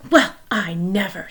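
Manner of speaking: slow awed "well I never"; impressed. Acted. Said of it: "very much impressed".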